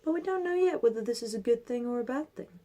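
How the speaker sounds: put-on calm, measured old man voice; wise old sage. Old man repeats his saying.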